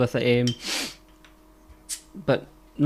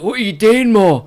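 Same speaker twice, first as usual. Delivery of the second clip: higher, louder startled question; shocked question; 7 semitones higher, 7 dB louder than usual. Retold or imitated. Colin finding his mum lying on the bench, shocked. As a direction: blurt it out in disbelief.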